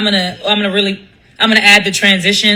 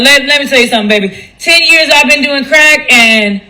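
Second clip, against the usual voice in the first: put-on wise old-timer giving advice; 3 semitones higher than usual. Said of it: "I want you to be like".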